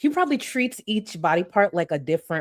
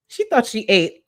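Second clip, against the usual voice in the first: higher, louder mocking jab; mocking scoff; 5 semitones higher, 5 dB louder than usual. Real, not acted. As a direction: scoff at her, pitched up. Mocking the girl in the clip.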